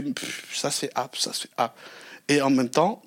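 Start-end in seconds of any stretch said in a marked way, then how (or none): 0.0-1.8 hushed inner voice. Retold or imitated. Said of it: "tu fais".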